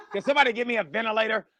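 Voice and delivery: laughing, breathless plea for air; mock gasping. The speaker's joking gasping, laughing breathless plea. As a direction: beg for a ventilator while laughing. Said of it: "act like he was out of breath".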